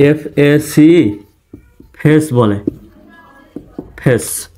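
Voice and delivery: ফেস said the common wrong way, a short flat e; ফেস as a short e, not a glide; wrong pronunciation. Shown as a demonstration. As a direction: demo the mistake: ফেস with a plain short vowel. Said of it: "এটি ভুল উচ্চারণ".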